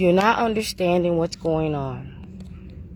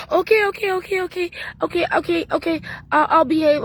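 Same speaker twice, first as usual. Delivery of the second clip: put-on high, rapid panicked kid; pleading kid voice; 12 semitones higher, faster than usual. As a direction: beg like a scared kid caught out. Kid begging once caught.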